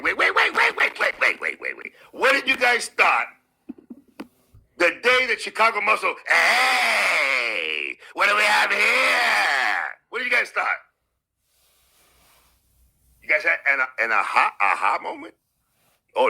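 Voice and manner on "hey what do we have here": slow mock shout. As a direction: imitate the rival teasingly. Mocking quoted rival.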